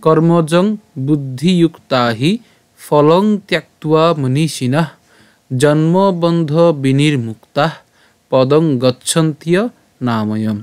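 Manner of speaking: slow, measured Sanskrit shloka recital; verse recitation. Shown as a demonstration. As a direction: recite slowly phrase by phrase, holding long vowels. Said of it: "আবার প্রথম থেকে বলি". (ধীরে টেনে শ্লোক পাঠ)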